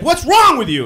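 high, loud mock wife scolding; exasperated wife. Wife scolding husband mid fight, exasperated. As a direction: snap at him as the fed-up wife. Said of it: "She's like".

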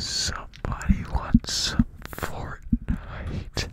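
very slow, loud whisper; whispered announcement, hugely drawn out; drawn-out stage whisper. Pretend. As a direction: stretch every word in a forceful whisper. Repeats request, hugely drawn out.

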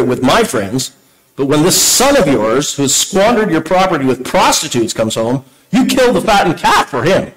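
put-on sulky, whining older son; pouty. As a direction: read it like a resentful son. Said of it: "Did I sound pouty enough?".

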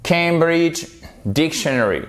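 "Cambridge Dictionary" slowly, "ay" in Cambridge, stress on DIC; model pronunciation. Shown as a demonstration. Teacher modelling for students, slow, careful English "Cambridge Dictionary". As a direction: spell out "Cambridge Dictionary" by ear, word by word. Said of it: "c'est une diphtongue en phonétique".

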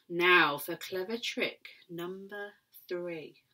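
slow, scheming crocodile voice, drawn out; sly crocodile. Acted. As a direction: savour the plan like a villain. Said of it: "said the enormous crocodile, licking his lips".

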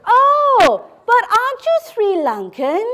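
high, lightly hammed-up surprised "oh"; mock surprised guesser. Stranger corrects the speaker's origin, mock surprised.

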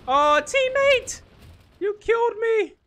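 high, slow dramatic wail; man down shout. Pretend. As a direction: wail it like a fallen soldier. Killed by a teammate.

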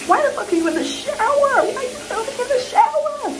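high, fast mock outrage; shocked viewer voice. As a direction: play the baffled viewer, loud and high. Mimics viewers' shocked question.

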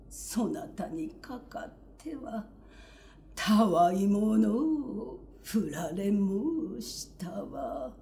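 slow self-mocking lament, fading to a whisper; rueful lover. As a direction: sigh out the rejection, trailing off. Tojuro laughs off rejection.

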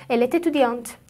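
"ال تتودیانت" joined by an audible t; liaison with t. Shown as a demonstration. Teacher repeating the example, "ال تتودیانت" with linking t. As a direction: run "ال تتودیانت" together through the t.

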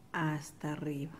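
soft whisper while concentrating on the stitch; whispered aside. Real, not acted. Teacher whispers to student while stitching, whispered. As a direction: whisper hasta arriba under your breath. Quiet aside during embroidery demo.

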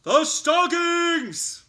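loud, high, slow excited cry. Acted. Mouse spotting the stockings, loud and thrilled. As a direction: gasp it out in delight.

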